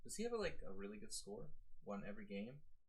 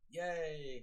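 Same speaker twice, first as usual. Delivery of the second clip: excited cheer; 7 semitones higher, 6 dB louder than usual. Real, not acted. Just won the tournament.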